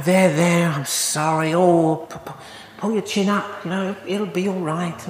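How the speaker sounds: lightly acted sympathetic platitudes; mock consoling. Preacher imitating people comforting the bereaved, mock consoling. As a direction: offer awkward, hesitant mock comfort.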